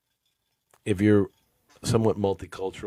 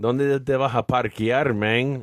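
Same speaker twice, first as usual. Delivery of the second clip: lightly voiced Miami Spanglish; a hint of Miami Spanglish; Miami Spanglish accent; 6 semitones higher than usual. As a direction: toss it off like a Miami local. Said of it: "If we had to say there was an accent".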